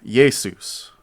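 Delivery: Jesus said yay-SOOS, weight on the latter half; Greek Jesus. Shown as a demonstration. Teacher repeats Greek Jesus, stressing the latter half. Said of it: "with the emphasis on the, the latter half".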